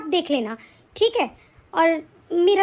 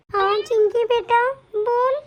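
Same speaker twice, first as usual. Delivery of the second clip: put-on old grandmother; 4 semitones higher, slower than usual. Grandmother answers.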